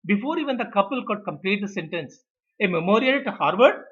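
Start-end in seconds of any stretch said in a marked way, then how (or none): 2.6-3.8 acted disbelief, pitched up; incredulous interruption. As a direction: cut in with a raised, louder question. Director cuts in on the couple.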